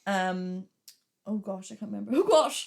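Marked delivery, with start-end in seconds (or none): 2.1-2.7 louder, higher cry breaking into laughter; amused exclamation. Real, not acted. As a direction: burst out at your own catchphrase. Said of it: "Why did I keep saying that?".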